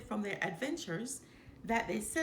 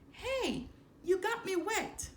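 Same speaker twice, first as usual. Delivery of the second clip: mild cub yell; 11 semitones higher than usual. A narrator's reading. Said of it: "Simba yelled".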